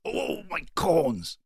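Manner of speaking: high, slow whimpering over sore corns; plaintive wail. A narrator's reading. Clerk wailing over his sore corns, plaintive and high. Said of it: "he said plaintively".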